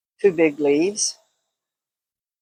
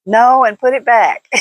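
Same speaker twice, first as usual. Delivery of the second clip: louder, a flat no from the daughter; daughter's firm no; 4 semitones higher, 7 dB louder than usual. Retold or imitated. Daughter refusing the salt shakers, firm and loud. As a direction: snap back a refusal, half-joking. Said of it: "my daughter".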